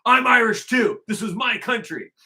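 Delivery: high, loud imitation African accent; hammed-up African accent, pitched well up; mock African accent. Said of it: "saying that with an accent".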